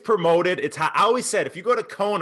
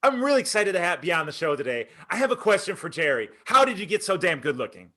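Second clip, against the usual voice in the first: punchy, upbeat demo read; asking like you mean it; 2 semitones higher than usual. Shown as a demonstration. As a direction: sell it with inflection. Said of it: "ask it like you mean it".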